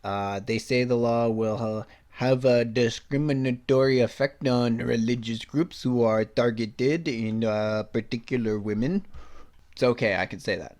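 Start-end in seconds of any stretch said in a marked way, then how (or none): 0.4-9.1 lightly put-on French accent, slowed on targeted; a mock French accent read of the quote, half-hearted. Shown as a demonstration. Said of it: "This time we'll say it with a French accent".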